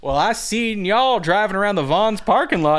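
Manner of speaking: high, loud folksy heckling; rodeo clown announcer. Retold or imitated. Clown announcer teases women about parking lot driving, loud mock hype. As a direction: rib the crowd like a hammy arena clown. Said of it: "And he goes".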